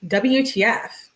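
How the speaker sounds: W T F spelled out slowly, each letter weighted; slow, pointed W T F; emphasized. Acted. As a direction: stretch out W T F for emphasis. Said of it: "she emphasizes it".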